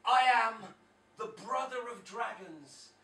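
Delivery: slow, grand recital; solemn Job quote. Retold or imitated. Comic quoting Job to the audience, slow solemn recital. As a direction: intone it like scripture. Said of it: "where he says".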